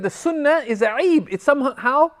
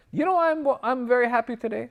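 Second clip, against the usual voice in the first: retold happy friendgiddy; 3 semitones higher than usual. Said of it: "he's really happy".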